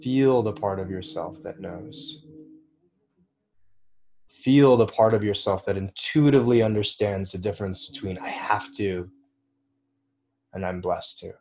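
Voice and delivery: unhurried meditation guide, leaving long pauses; calm instruction with room to breathe; guided meditation. Real, not acted.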